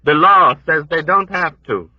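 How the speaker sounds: put-on high, lamenting old woman; old woman's voice. A narrator's reading.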